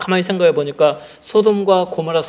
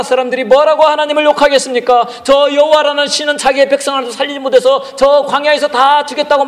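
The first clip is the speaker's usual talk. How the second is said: raised, higher pleading cry to God; earnest prayer; 7 semitones higher, 5 dB louder than usual. Acted. Moses crying out to God for his people, loud pleading. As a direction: beg God loudly to spare the people. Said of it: "간절히 기도합니다".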